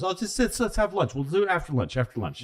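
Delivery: lightly acted dismissive stalling; breezy brush-off. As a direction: casually wave away an eager colleague. FDR brushes Churchill off in retelling.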